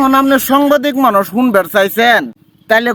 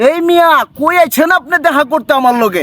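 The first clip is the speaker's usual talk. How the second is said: Old Dhaka street talk, put on; Old Dhaka dialect; 2 semitones higher than usual. Shown as a demonstration. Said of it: "পুরান ঢাকার ভাষা শোনান".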